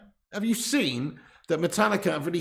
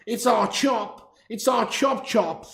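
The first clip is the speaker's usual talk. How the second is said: high, drawn-out nickname chant; slow, raised-pitch cheer for a pal; playful hailing; 5 semitones higher, slower than usual. Pretend. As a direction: stretch out the nickname as a fond greeting. Hailing a regular viewer by nickname.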